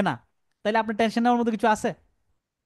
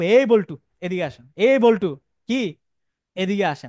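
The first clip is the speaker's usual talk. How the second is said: calling out; 3 semitones lower, 4 dB louder than usual. Shown as a demonstration. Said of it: "তারা কিভাবে ডাকবো".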